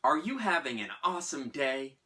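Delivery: mock-cheery cashier greeting; lightly voiced customer service cheer; chirpy counter girl. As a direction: imitate a perky cashier with swooping emphasis. Repeats the cashier's over-cheery greeting.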